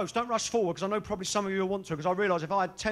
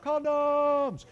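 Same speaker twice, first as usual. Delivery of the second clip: shouted word; 5 semitones higher than usual. Retold or imitated. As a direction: call it out across the counter. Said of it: "So you had to shout".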